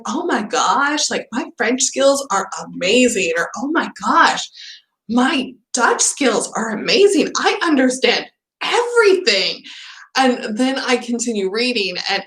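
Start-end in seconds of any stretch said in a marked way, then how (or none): 0.1-3.3 mock-proud gushing; lightly acted self-congratulation; proud of myself. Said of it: "I'll get really proud of myself". 3.6-9.6 higher-pitched mock amazement; building, lightly hammed-up pride; proud of myself. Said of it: "I'll get really proud of myself".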